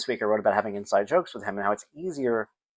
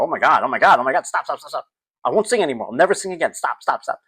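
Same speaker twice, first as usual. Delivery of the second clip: panicked pleading; 2 semitones higher, 4 dB louder than usual. Retold or imitated. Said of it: "I'm freaking out".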